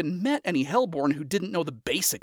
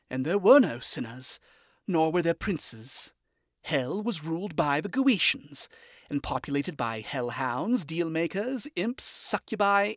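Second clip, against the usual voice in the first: recited; 3 semitones higher than usual. A narrator's reading. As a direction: recite it like an old tale. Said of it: "he recited from memory".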